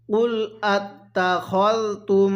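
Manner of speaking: drawn-out chanted recitation; slow melodic Quranic chant. Shown as a demonstration. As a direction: recite it like a tajweed teacher. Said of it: "কিভাবে শিখব?".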